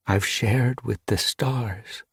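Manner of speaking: purring. A narrator's reading. Ice Star tells Frost Dawn of the stars, purring. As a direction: savour it slowly, gently. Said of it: "she purred".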